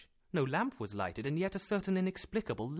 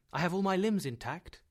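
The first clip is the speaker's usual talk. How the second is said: eager questioning; 6 semitones higher, 6 dB louder than usual. A narrator's reading. Anxious patient fires questions at uncle.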